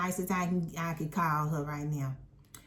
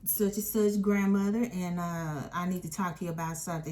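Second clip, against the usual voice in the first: mock sweet, overly polite teacher voice, quick in places; sugary fake politeness, retold; fake nice teacher; 2 semitones higher than usual. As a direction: imitate a teacher putting on a nice act. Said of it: "She trying to act all nice".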